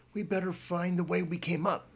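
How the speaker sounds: put-on worried boy voice, mildly uneasy. Boy in dark stairwell, mildly uneasy to his friend. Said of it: "Bob said uneasily".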